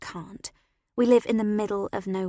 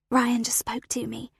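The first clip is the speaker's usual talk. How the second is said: breathless; 3 semitones higher than usual. Acted. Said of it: "I say breathlessly".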